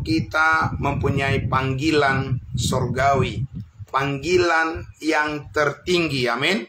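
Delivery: measured, emphatic sermon delivery; preaching. Real, not acted. Pastor expounds the verse to livestream congregation, measured preaching. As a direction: preach it slowly, drawing out the key phrases. Preaches after technical apologies.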